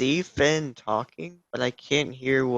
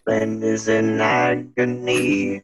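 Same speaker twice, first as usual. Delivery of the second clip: auto-tuned voice changer; sing-song robotic pitch correction; voice morphing; 5 dB louder, slower than usual. Acted. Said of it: "Are you auto-tuning yourself now?".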